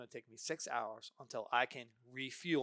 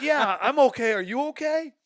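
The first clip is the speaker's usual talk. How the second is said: laughing reply; 13 semitones higher, 17 dB louder than usual. Retold or imitated. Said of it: "He goes".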